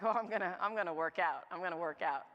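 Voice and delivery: pumped up for the first workout; mock eager. Mocking her own eager first day at the gym.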